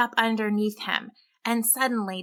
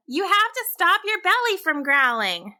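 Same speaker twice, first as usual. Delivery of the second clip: lightly voiced kid brother, higher and urgent; a hint of a worried younger boy; 9 semitones higher than usual. A narrator's reading. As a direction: plead with him to make it stop. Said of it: "his brother called".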